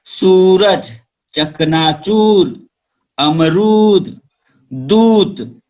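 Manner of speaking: सूरज, चकनाचूर, अमरूद, दूत with drawn-out uu, slow; long uu stretched. Shown as a demonstration. Teacher models long uu words for pupils, slowly. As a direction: hold the uu long. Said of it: "आगे है बड़ा ऊ".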